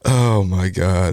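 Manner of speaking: real reaction, just recovering from laughter; amused disbelief. Real, not acted. Reactor taken aback by the comedian's opening joke, amused disbelief.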